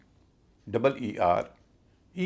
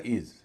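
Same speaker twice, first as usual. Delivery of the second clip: "इज" as a long heavy "eez"; stressed syllable; 3 semitones lower than usual. Shown as a demonstration. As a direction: draw out and weight the vowel of "इज". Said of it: "stress उस पर होगा".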